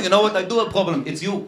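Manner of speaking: a mild, cool put-down; Israeli retort. Retold or imitated. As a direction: settle it calmly. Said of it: "Israeli guy".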